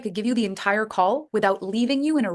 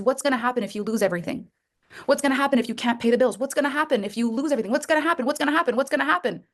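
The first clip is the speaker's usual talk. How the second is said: voice of shame; 3 semitones higher, faster than usual. Retold or imitated. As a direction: rattle off the fears faster and faster, like panic. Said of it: "Because shame says".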